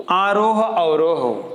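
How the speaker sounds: आरोह अवरोह stretched slowly, each syllable drawn out. Shown as a demonstration. Teacher drawing out आरोह अवरोह slowly for students. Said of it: "स्वर में".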